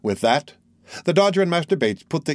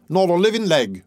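Toby's voice; 6 semitones higher than usual. Acted. Toby Crackit answers.

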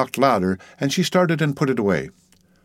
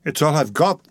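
higher-pitched plea; understated desperate plea; pleading, voice breaking; 6 semitones higher than usual. A narrator's reading. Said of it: "he pleaded, his voice breaking".

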